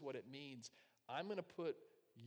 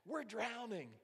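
high, loud panicked alarm; frantic cry; 8 semitones higher, 5 dB louder, slower than usual. Acted. Disciples screaming to Jesus that they drown, frantic. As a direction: cry out for rescue at once. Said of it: "shook him like crazy".

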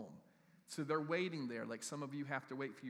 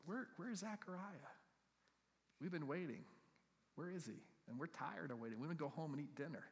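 restless crowd; 6 dB quieter than usual. Retold or imitated. Crowd voiced, hushed, odd timbre.

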